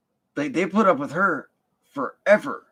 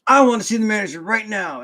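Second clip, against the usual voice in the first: mock Karen; 6 semitones higher, 6 dB louder, faster than usual. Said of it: "she went full Karen".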